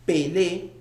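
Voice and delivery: "Pelé" in two even beats. Shown as a demonstration. Teacher showing students two beats, "Pelé" in two beats. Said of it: "también dos".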